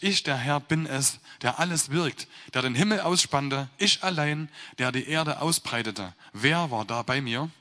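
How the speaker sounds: measured, solemn reading of the Bible text; scripture reading. Acted. Preacher reading Isaiah to the congregation, solemn scripture reading. Rereads verse twenty-four.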